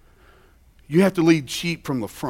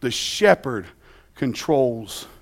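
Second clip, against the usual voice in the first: hushed; 4 semitones lower, 6 dB quieter, slower than usual. Acted. Preacher drops voice to hush.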